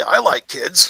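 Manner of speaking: troll voice, said loudly. Narrating what a monster-hunting traveler overhears in an argument, loud troll voice. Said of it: "He hears a troll voice loudly say".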